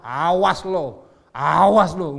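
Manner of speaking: loud warning with a long-stretched "awas"; mock angry threat. God wrongly imagined threatening a sinner, mock anger. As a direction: play a hammed-up menacing scold. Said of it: "Tuhan itu bukan pemarah".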